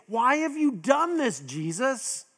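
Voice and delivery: a mother calling out to her lost son; frantic mother. Retold or imitated. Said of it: "she's saying".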